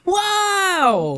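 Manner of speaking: very high, long-drawn cheer; amazed delight. Real, not acted. Friend hearing "I got hired", amazed and delighted. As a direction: celebrate the news with amazement.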